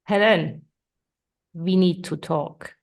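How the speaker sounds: assertive and serious, slow; firm and weighty. Shown as a demonstration. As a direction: assertive request to talk. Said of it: "sounds pretty serious there".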